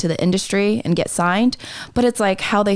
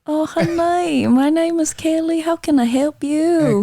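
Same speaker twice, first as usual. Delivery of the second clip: high-pitched nail salon greeting, mock Asian accent; put-on Asian accent; 9 semitones higher, slower than usual. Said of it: "I can do a very good accent".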